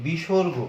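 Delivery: বিসর্গ as "bishorgo", every syllable sounded; deliberate, stretched বিসর্গ; full letter-name pronunciation. Shown as a demonstration. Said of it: "এরকম কোনো উচ্চারণ আমরা পাচ্ছি না".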